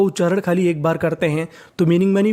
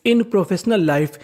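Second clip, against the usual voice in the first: very slow, word by word; slow dictation; much slower than usual. Shown as a demonstration. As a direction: read the sentence slowly for the class. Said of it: "तो पूरा sentence क्या बना?". (बहुत धीरे-धीरे वाक्य पढ़ना)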